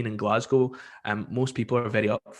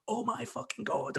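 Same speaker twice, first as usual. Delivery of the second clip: over the top; 11 semitones higher, 9 dB quieter than usual. Retold or imitated. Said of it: "goes over the top and goes".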